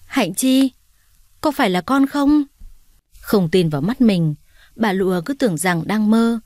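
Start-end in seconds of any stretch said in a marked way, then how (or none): 0.1-2.4 higher, voice catching in disbelief; choked up. A narrator's reading. Mother sees her lost daughter, choked high disbelief. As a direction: blurt it out, choked with emotion. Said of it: "rồi nghẹn ngào thốt lên".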